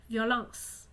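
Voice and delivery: "violence" ending on s, the E left silent; silent final E. Shown as a demonstration. Teacher showing students the mute E, plain and clear. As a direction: say "violence" as three syllables, vio-lence. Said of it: "On ne compte pas le E".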